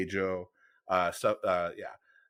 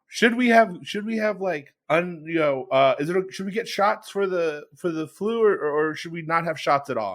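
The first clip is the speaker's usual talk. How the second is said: higher, whiny mock question; mock dumb question; 5 semitones higher than usual. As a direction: mimic a silly coworker's question, higher. Mocking coworkers' silly question.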